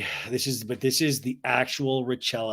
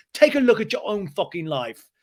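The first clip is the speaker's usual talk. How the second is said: James's angry retort; 6 semitones higher, 4 dB louder than usual. Retold or imitated. James argues with Schwartz.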